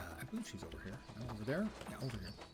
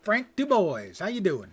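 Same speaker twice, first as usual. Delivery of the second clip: chummy greeting; 6 semitones higher, 7 dB louder than usual. Pretend. Mock buddy greeting to captain.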